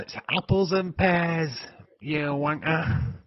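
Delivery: loud, high, drawn-out Cockney; hammed-up Cockney barrow boy; slow, punchy mock Cockney; Cockney accent. Shown as a demonstration. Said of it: "It's just Cockney".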